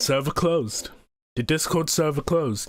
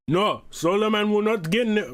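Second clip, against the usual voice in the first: rough attempt at an uncertain accent, slightly higher; lightly put-on, higher-pitched impression; Hugo impression; 4 semitones higher than usual. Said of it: "I'm trying to do a Hugo impression".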